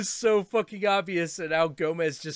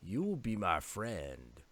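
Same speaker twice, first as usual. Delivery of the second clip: stare them down in words; menacing cat; 5 semitones lower than usual. Retold or imitated. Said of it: "Now he's sort of like".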